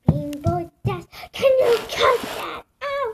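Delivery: high, loud annoyed yell; annoyed shout. Real, not acted. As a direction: tell her off loudly. Yelling at sibling's song.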